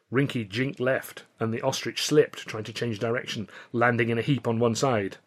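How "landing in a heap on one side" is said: ordinary delivery, nothing marked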